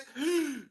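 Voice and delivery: sharp high dramatic gasp; mock gasp. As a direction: gasp like she's shocked, for laughs. Mock woman gasping.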